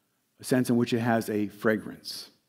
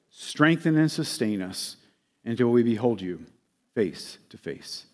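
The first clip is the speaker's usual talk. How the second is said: closing prayer. Real, not acted. Preacher asking Lord Jesus to bless and keep us, praying.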